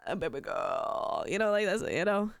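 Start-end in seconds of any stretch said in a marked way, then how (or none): 0.1-1.2 put-on lower, slow, smarmy purr of baby girl; mock TikTok fuckboy.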